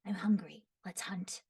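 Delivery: put-on lightly growly, half-whispered boy; a hint of a gruff wolf boy; Razor's voice. Shown as a demonstration. Voice actor demoing a hungry hunter boy, lightly growly. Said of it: "a little bit of a growly thing to him".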